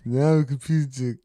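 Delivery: words squeezed through clenched teeth; through gritted teeth. Retold or imitated. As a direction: talk without opening the jaw. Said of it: "He talked through his teeth".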